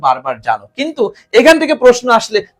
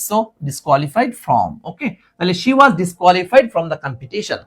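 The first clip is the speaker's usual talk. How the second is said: very slow, word by word; slow model sentence for students; slow teaching read; much slower than usual. Shown as a demonstration. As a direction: spell it out slowly for the class. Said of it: "teacher models the English slowly".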